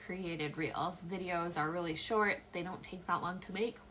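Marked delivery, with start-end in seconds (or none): 2.5-3.8 talking through a yawn; words stretched by a yawn. Real, not acted. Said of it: "Excuse me and my yawn".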